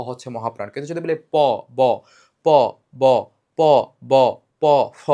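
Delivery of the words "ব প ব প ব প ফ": প and ব both said without extra breath, ফ with a puff; unaspirated demo. Shown as a demonstration. Teacher comparing প and ব with ফ for students. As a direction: contrast প ব with little air, then ফ breathy. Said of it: "দেখছো?".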